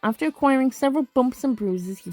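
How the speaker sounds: measured game-text narration; story narration. Acted. Player reading patrol results to viewers, story narration. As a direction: read it out like a storyteller.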